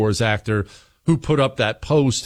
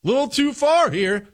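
mock gentle objection; 10 semitones higher, much slower than usual. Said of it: "other Democrats are not saying".

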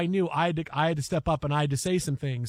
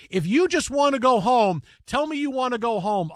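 raised, louder mock yell at the ref; retold yell; 5 semitones higher, 4 dB louder than usual. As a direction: shout it at the referee, half-playing it. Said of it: "And I just yelled".

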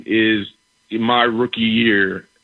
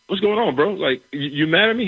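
confused; 6 semitones higher than usual. Retold or imitated. Confused by teammate hitting him.

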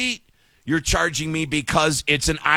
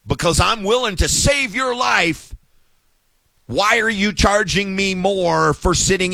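raised, exasperated rant; indignant shout; 4 semitones higher than usual. Real, not acted. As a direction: shout it like you're fed up with the airline. Ranting about paying for exit row.

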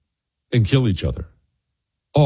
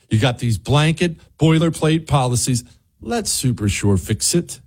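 lightly voiced host-read sponsor pitch. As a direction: sell the insurance agency conversationally.

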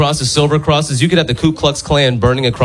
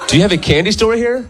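high kiddie question; like a six-year-old; 9 semitones higher than usual. Acted. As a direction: pitch it up like a small child asking. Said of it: "said it like a six-year-old".

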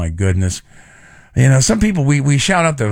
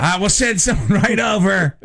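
mock dispatcher; 6 semitones higher than usual. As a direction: reassure the caller like a dispatcher. Mock 911 operator reply.

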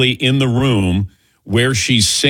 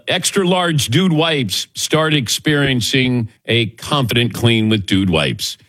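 upbeat radio ad read; slower than usual. Acted. Host slides into a live ad read in his show voice. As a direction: sell the product to listeners. Ad tagline.

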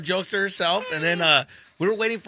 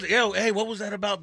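manly voice; 4 semitones higher than usual. Shown as a demonstration. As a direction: say it like a tough dude. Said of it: "in my manly voice".

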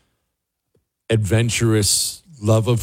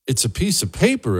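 ordinary talk

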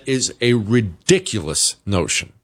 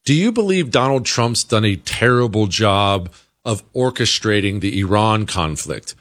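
ordinary talk, nothing marked

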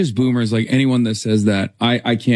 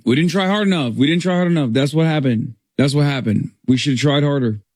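mock whiny excuse; 3 semitones higher than usual. Mocking campaign excuses after loss.

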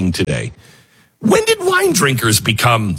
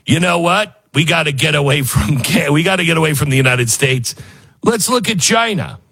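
Trump voice; 3 semitones higher than usual. Retold or imitated. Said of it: "I shouldn't use a Trump voice".

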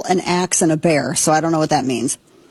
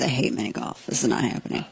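muttered under the breath, much softer; quiet inner thought; 7 semitones lower, 9 dB quieter, faster than usual. Retold or imitated. Recalling a bad date offer, softer inner grumble.

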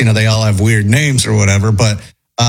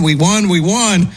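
a retold victory cheer, pitched up; hammed-up cheer of horse race winners; mock excited screaming; 6 semitones higher than usual. Wife and friend celebrating their horse's win, mock cheering. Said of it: "they start screaming".

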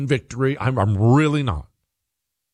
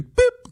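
short high-pitched beep; quick vocal beep, like a button press; imitated beep; 4 dB louder than usual. Host mimicking switching on emergency Starlink, short beep.

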